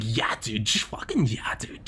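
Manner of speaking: lightly imitated hyped dude; put-on dude voice. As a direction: slip briefly into an excited bro voice. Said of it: "what that voice was".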